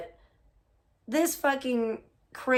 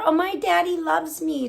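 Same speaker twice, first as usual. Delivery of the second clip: mocking bragging; 5 semitones higher than usual. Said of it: "bragging about how her".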